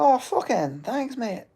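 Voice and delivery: slow, high, dripping mock gratitude; drawn-out sarcastic thank-you with pitch way up. Sarcastic reply to chat compliment.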